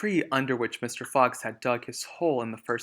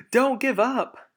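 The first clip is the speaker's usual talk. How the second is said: high, loud, slow put-on voice; urging; 12 semitones higher, 9 dB louder, slower than usual. Mister Fox urging his children on, high and loud. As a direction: push them on with urgency.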